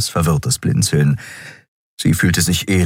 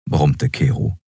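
ordinary delivery

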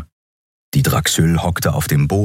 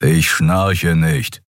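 grumbling; much slower than usual. Acted. Keru denies snoring to Xer with a slow grumble. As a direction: rumble the denial slowly. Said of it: "brummte Keru".

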